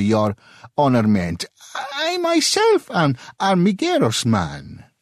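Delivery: high, quick self-scolding then proud; lightly voiced excitable Italian; excitable merchant. A narrator's reading. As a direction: slap your forehead and gush. Merchant berates himself, then boasts.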